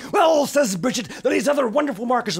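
high, loud, fast and eager; excited girl. Acted. Girl bursting to tell her mum about new markers, loud and eager. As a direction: burst out with the big idea.

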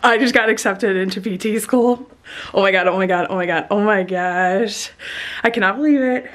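loud, overwhelmed burst of good news; real excitement. Real, not acted. Vlogger just accepted into PT school, real excitement. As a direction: gush loudly in disbelief. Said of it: "it's so exciting".

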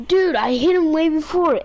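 high, loud angry protest; raging gamer. Real, not acted. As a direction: shout your claim at him. Repeated kill argument, louder.

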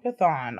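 Chthon said as "kuh-THAHN"; short-o pronunciation. Shown as a demonstration. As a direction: settle on Chthon with an open "ah", falling. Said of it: "I'll say Chthon".

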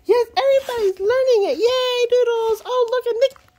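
high loud laughing praise; happy praise. Real, not acted. Owner praising all the dogs, high delighted. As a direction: cheer everyone on.

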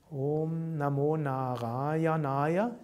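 Om Namo Narayanaya in a gently moving spoken tune; first way of pronouncing. Shown as a demonstration. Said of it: "is one way of pronouncing it".

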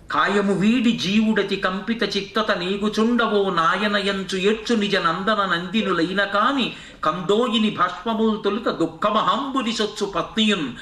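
slow, metrical poem chant; verse recitation. Acted. Preacher reciting verse on the departing soul, slow recitation. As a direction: recite it in drawn-out measured phrases, sinking at the close.

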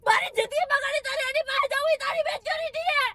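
hurt, angry, crying; crying shout. Real, not acted. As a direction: throw his words back at him, sobbing. Girlfriend yelling while crying.

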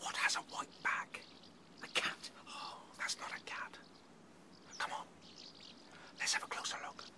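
hushed whisper, barely voiced; breathy sneaking whisper. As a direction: whisper so it won't hear you. Sneaking up on unknown creature.

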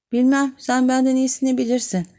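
coy shrug in the voice; sly girl. A narrator's reading. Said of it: "kurnaz kurnaz bakıp omuzlarını silkerek".

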